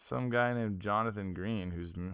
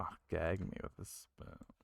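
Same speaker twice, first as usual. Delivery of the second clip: whispery, breathy, hushed, creaky vocal fry; 3 semitones lower, 16 dB quieter than usual. Two speakers discussing nineties slang; one repeats the phrase, imitating vocal fry. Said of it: "when you said it with that vocal fry".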